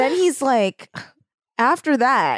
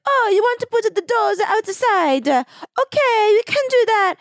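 1 mock Italian shopkeeper; 7 semitones higher than usual. Retelling Partini's reply.

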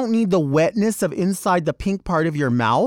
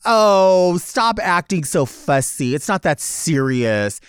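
dismissive mock; 3 dB louder, slower than usual. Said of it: "then tell people".

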